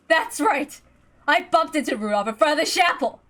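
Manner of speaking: Ava's voice. Acted. Ava voiced in story.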